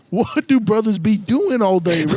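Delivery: put-on high, slow African American accent. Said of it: "completely switch the accent you've had".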